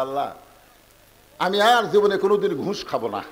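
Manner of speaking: ordinary delivery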